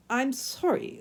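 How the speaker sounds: sneering fake apology; sarcastic. A narrator's reading. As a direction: say sorry without meaning it. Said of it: "said the man sarcastically".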